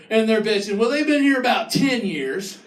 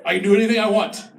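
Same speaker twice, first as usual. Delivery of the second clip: entitled local; faster than usual. Retold or imitated. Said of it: "Here, it's".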